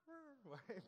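high, soft mock dog barks; high-pitched pretend yapping; imitated barking. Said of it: "I hear from downstairs barking".

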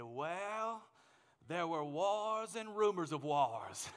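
slow Mississippi drawl, long-held well; Mississippi accent. Retold or imitated. Grandfather at his fiftieth wedding anniversary, slow Mississippi accent. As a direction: imitate an old Mississippi man, slowly. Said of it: "in his Mississippi accent, he said".

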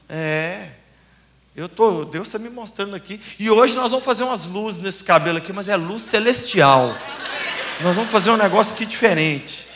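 low, confiding prophecy to a client; hushed prophetic word. Acted. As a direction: lean in and tell her softly what God shows.

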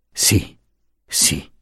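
quiet, moved assent; soft little yeses, full of feeling; a touch of emotion; deeply moved. A narrator's reading. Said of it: "tutta commossa".

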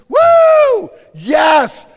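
hammed-up mock celebration yell; mock cheer. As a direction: whoop it up like a fake celebration. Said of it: "I'm like".

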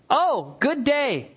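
slow sugary greeting; mock politeness. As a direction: stretch the fake pleasantry out. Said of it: "He who hates disguises it with his lips".

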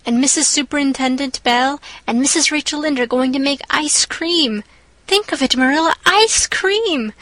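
lightly voiced excited child begging; eager young girl. Anne begs Marilla about the picnic, eager and girlish. Anne's eager pleading speech.

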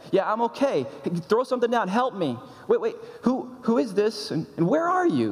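a hint of a man calling from a cliff; calling up for help.

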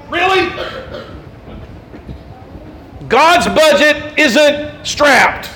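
incredulous. Real, not acted. Incredulous rebuttal.

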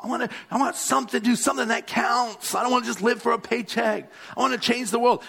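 rushed, lightly voiced eager youngster; a touch of teasing millennial earnestness; mock millennial. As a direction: tumble the words out like an impatient twenty-something. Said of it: "that's how we talk".

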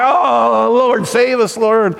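mock desperate altar cry. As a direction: plead to be saved. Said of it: "And we'd cry".

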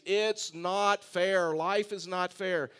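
slow, drawn-out whiner's complaint. Retold or imitated. Preacher quoting David's favorite phrase, as a slow whine. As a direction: drag out each word like a whiner. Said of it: "David was a whiner".

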